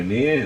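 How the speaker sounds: "in here" squashed into "near"; run-together words. Shown as a demonstration. Director showing actor's slip, "in here" heard as "near". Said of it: "it sounded like".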